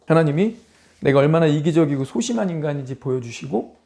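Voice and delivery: normal talking voice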